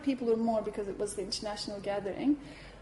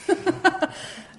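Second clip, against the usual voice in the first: delighted laugh; 7 semitones higher, 6 dB louder than usual. Real, not acted. Laugh after yes.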